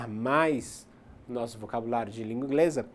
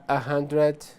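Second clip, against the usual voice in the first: a hundred drawn out slowly, louder; slow demo; 5 dB louder than usual. Shown as a demonstration. Teacher slowing a hundred down for students. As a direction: stretch a hundred slowly for learners. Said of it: "one hundred two".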